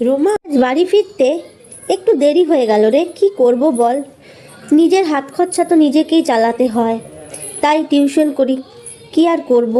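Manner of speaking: put-on a light friendly girl's voice, chatty; tired student explaining to her friend; lightly voiced young girl. Shoili plays returning late. (হালকা মেয়েলি কণ্ঠে বন্ধুকে বলা)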